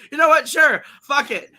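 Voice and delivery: a hammed-up loud Scarlett caving in; exasperated giving in. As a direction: blurt it like you give up on everything. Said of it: "Scarlett O'Hara is like".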